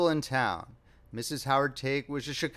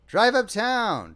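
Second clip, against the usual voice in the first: slow, raised, louder instruction; confident direction; 6 semitones higher, 6 dB louder, much slower than usual. A narrator's reading. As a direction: order it with grand assurance. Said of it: "directed Perry with fine confidence".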